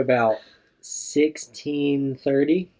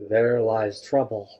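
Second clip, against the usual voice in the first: pirate voice; 4 semitones lower, slower than usual. Pretend. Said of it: "Okay, pirate voice".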